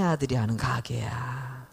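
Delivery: hushed whisper, as if telling a secret; whispered grandmother. Retold or imitated. Grandmother confides to the fruit seller in a whisper. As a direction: whisper it like a sneaky old grandmother. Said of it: "그 할머니가 뭐라 그러냐면은요".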